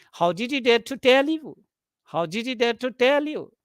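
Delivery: mild surprise, pitch up around "tell"; surprised question. Shown as a demonstration. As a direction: lift TELL in demonstrated surprise. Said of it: "indicating a feeling of surprise".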